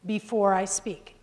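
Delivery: a breath taken just before "before I speak"; pause before "before". Shown as a demonstration. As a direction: stop to breathe, then say "before I speak" slowly. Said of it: "I even stuck in another one there".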